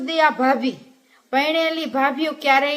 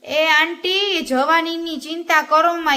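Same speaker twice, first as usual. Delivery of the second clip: higher, louder call across to the aunt; 4 semitones higher, 3 dB louder than usual. Acted. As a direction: shout over to the grieving aunt. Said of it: "રાડો પાડીને કીધું".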